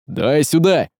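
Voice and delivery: a touch of urgency, reaching to take it; urgent exclamation. A narrator's reading. Тихомир runs up demanding the knife, mild urgent exclamation. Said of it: "воскликнул Тихомир".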